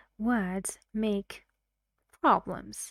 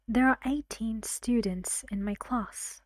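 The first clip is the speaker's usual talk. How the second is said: put-on "eighteen" stressed on its first syllable, EIGH-teen; stress moved forward. Shown as a demonstration. Teacher demonstrates moved stress, "eighteen" stressed on EIGH. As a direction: hit EIGH in "eighteen", then "students". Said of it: "the stress goes on the first syllable".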